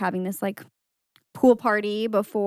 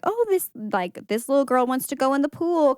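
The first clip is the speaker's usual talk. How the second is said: raised-pitch mock voice of a scheming girl; imitated mean girl; 6 semitones higher than usual. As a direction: lightly put on a higher girlish voice. Imitates Cecilia calling over friend.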